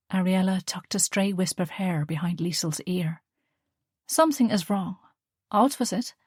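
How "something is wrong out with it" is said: gentle mother. Acted. Mother coaxing her daughter, lightly voiced and gentle.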